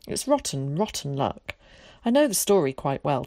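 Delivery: lightly voiced boy pleading his case; a child's mild grievance, building at the end; aggrieved, wordy boy. Voices Zack's complaint.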